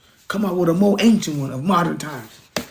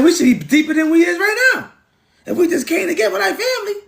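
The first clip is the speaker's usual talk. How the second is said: laughing; 13 semitones higher than usual. Real, not acted. Laughing at his own point.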